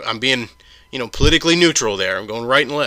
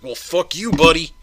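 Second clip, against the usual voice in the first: higher, snarling put-on troll voice; mock angry troll; 5 semitones higher, 4 dB louder than usual. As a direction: play the offended commenter lashing out. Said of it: "And he's just like".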